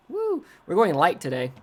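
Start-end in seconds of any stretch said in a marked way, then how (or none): 0.1-0.4 excited whoop. Real, not acted. Cheers at finding the toggle.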